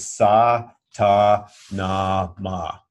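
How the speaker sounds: sa, ta, na, ma said slowly and evenly, one syllable per finger; mantra syllables. Shown as a demonstration. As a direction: demonstrate each syllable of the mantra clearly. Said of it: "The first set is".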